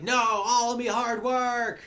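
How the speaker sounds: high, loud, drawn-out wail; hammed-up cry of loss; despairing princess. Princess wailing over lost work.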